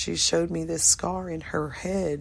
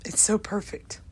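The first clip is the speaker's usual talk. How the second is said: soft unvoiced whisper; 4 semitones higher, 3 dB quieter than usual. Real, not acted. Recalling heaven with God, an awed whisper. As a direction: breathe it out in awe.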